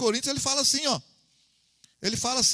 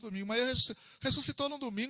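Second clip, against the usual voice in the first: normal talking voice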